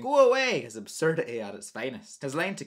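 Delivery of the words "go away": loud, high-pitched mock yell; imitating a shout. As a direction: shout it like the film character. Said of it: "while shouting".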